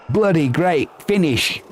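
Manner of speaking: playful attempt at an Australian accent. Streamer praising a great finish, mock Australian accent. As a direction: have a light go at an Australian accent. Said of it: "in my best Australian accent".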